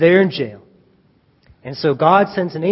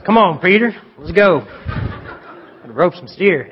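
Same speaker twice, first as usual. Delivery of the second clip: put-on Texas accent. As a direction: play the angel as a Texan rancher. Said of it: "Texas accent".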